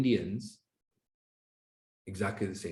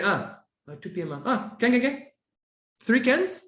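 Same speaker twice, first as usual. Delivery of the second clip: eager can can can; 9 semitones higher than usual. Retold or imitated. A colleague agreeing to Saturday help, eager. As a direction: fire off the cans eagerly. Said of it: "But if they say".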